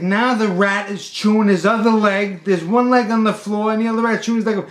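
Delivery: loud panic building to a high yell; screaming. Retold or imitated. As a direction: imitate a frantic customer screaming for help. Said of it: "He's screaming".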